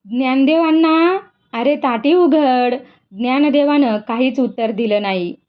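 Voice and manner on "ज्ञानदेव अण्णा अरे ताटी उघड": a mild call to her brother, slowed on the last words. Acted. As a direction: Mukta calls to her brother behind the door, a gentle call. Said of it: "तिनं साद घातली".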